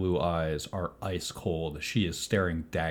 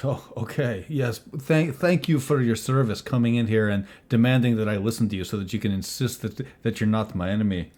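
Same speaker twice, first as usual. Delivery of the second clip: sarcastic thanks, higher and rushing on; scoffing; 3 semitones higher, 4 dB louder, faster than usual. Acted. Paladin thanking the intruder for demanding attention, scoffing sarcastically. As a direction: scoff at being told to listen. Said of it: "scoffs when you say, "Now listen".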